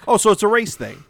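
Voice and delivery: high, loud indignant gasp; mock outrage. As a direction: feign shocked offence. Skit mock accusation.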